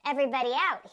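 loud lifeguard's order; shouting. A narrator's reading. Lifeguard clears the water, shouting. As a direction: shout it to the whole beach. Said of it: "he shouted".

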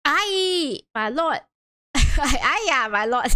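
laughing through the witness's aye my lord; giggling old cabby. Acted. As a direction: break character with a laugh.

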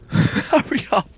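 slow, laughing hurry up; wheezing impatient jeer. Real, not acted. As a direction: drag it out while laughing.

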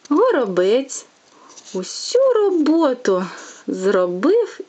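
lively, sing-song bedtime tale reading; storytelling to a child. A narrator's reading. Mother reading a fairy tale to her little one, sing-song. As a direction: read it like a fairy tale for a toddler.

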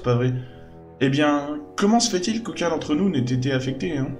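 a cheeky adventuress, puzzled; skeptical young woman. Acted. Voices companion questioning Charleston.

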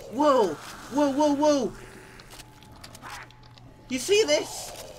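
voice crack. Real, not acted. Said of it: "Okay, voice crack".

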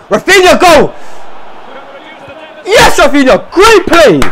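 high, urgent shouts; thrilled yell of praise; excited cheering. Real, not acted. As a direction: urge the player forward. Cheering an attack.

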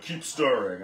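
quoting Dad, loud and insistent; imitating nagging dad. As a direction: insist like a nagging father at the stove. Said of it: "especially my dad cooking, he's like".

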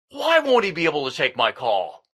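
fast, exasperated demand tumbling downward; losing temper. Acted. Frustrated caller to receptionist who refused him, losing temper. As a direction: rush it out, temper rising.

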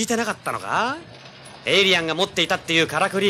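high, loud and fast; excited insistence. Acted. Detective impatiently reminding his partner of the alien device, loud and fast. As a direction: push the key clue at her.

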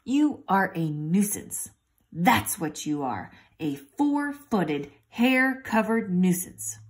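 slow, drowsy scolding; a hint of a half-asleep grumble; slow sleepy man scolding his dog. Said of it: "the man sleepily asked".

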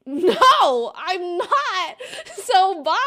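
loud mock refusal breaking into laughter; high, giggly kiss-off; laughing retort. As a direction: fire back a gleeful no, laughing. Retelling her breakup comeback, laughing.

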